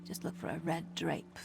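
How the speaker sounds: hushed insider whisper. Acted. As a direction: lean in and whisper the secret. Sharing secret route.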